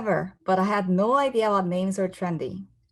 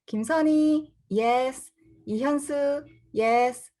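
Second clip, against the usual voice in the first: roll call; 6 semitones higher, slower than usual. Acted. Roll call at Korean school.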